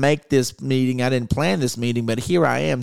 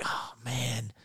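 deflated, much softer sigh of a voice; zawiedziony; 13 dB quieter than usual. Acted. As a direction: let it sink quietly, as if let down. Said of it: "we get let down".

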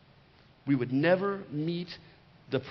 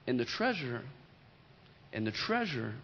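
quiet, dropping; 6 semitones lower, 7 dB quieter than usual. Real, not acted. Preacher to congregation, hushed and tender. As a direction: lower and softer with every repeat. Preacher builds to the point softly.

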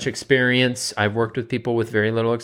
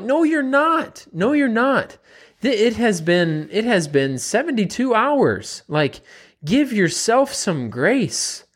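reassuring coach; 10 semitones higher, slower than usual. Retold or imitated. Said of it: "and I did kinda talk like that".

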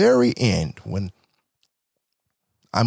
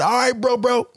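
higher, loose bro sendoff; 10 semitones higher than usual. Retold or imitated. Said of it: "my black slipped out".

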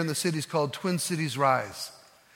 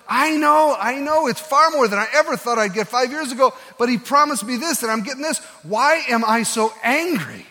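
loud, high, pained questioning; anguished outburst; 6 semitones higher, 4 dB louder than usual. Retold or imitated. Mike confessing to the pastor, loud and anguished. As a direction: pour out frustration and emptiness.

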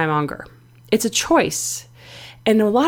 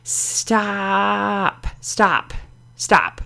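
calm stop; much slower than usual. Acted. Biggest fan halts the pushing monger, calmly. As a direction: gently call a halt. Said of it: "She always just calmly says".

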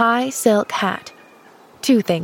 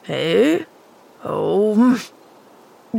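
gruff grunt; much slower than usual. A narrator's reading. Man greeted by the girl next day, grunting. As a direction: grunt it away without interest. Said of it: "grunted the man as before".

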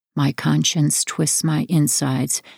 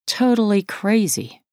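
higher, exasperated agreement; 6 semitones higher than usual. A narrator's reading. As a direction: echo her frustration. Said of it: "mirroring her exasperation".

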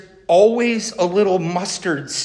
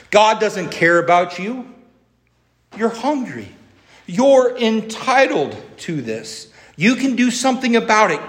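higher, egging-on tempter; taunting devil voice; 5 semitones higher than usual. Retold or imitated. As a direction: coax him like a sly devil. Preacher voicing the devil tempting Jesus.

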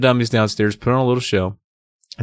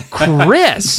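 loud, high scolding call; shouting; 7 semitones higher, 4 dB louder than usual. Acted. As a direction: snap the name like a mom. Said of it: "Missus Powell shouted".

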